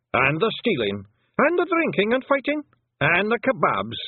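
a gleeful list of mischief building up; rowdy pixie chorus. A narrator's reading. Feagles join in boasting to Tiffany, rowdy high Scots cheer.

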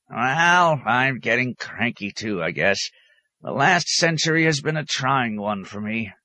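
high-pitched, conceding grumble; lightly crotchety high voice; cranky old hermit. A narrator's reading. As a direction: own up to crankiness.

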